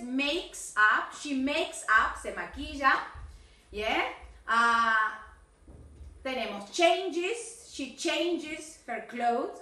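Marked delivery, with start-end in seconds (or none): 0.0-2.2 "makes" said slowly with a crisp final s; clear final S. Shown as a demonstration. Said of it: "fíjate las S". 6.7-9.6 slow, teacherly "changes" with its -es ending; careful model of "changes" for a pupil; ending sounded. Shown as a demonstration. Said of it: "Acuérdate que falta changes".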